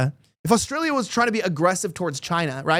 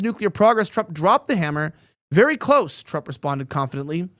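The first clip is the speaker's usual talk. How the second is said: article read aloud, punched headline words; news read. Real, not acted. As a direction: read the report like a newscaster.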